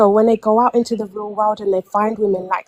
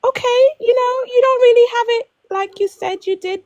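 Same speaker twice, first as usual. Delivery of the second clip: much higher, half-sung encouraging tone; mock encouraging; 13 semitones higher, 4 dB louder, faster than usual. To her ex, a pitched-up mock pep talk. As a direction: brightly humour him while doubting.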